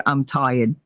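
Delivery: "tired" with the R dropped, "TIE-id"; Jersey "tired". Shown as a demonstration. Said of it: "make fun of me 'cause I say".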